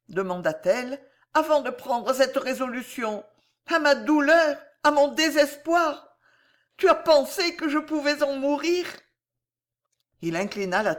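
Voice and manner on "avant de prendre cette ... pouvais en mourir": high, loud, pleading question; acted anguished heroine's appeal; anguished woman in love. A narrator's reading. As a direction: press your lover for an answer, pitched up. Voices Corisandre in the story.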